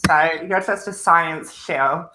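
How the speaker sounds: deadpan conspiracy theorist; mock-serious, slowing at the end; sarcastic. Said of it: "so I am being sarcastic".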